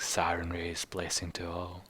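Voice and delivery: soft breathy whisper. Retold or imitated. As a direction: whisper it to yourself. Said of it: "He actually whispers it".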